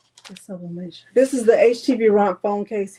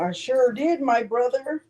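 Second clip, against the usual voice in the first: proud sass; 3 semitones higher, slower than usual. Retold or imitated. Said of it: "he asking me all them questions".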